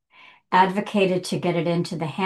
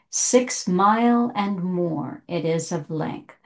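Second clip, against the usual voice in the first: poem reading; slower than usual. Shown as a demonstration. Rereads the poem's couplet.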